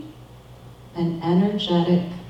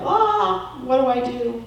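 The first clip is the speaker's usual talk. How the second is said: frazzled cry; 7 semitones higher than usual. Retold or imitated. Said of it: "and we're like".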